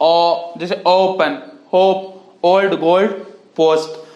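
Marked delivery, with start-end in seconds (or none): 0.0-0.5 "ओ" held as a long vowel. Shown as a demonstration. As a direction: draw the "ओ" out. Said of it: "मजहूल sound long". ("ओ" की लंबी आवाज़)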